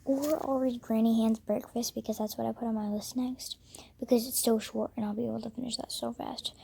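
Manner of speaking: hushed morning whisper. Real, not acted. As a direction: whisper so no one wakes.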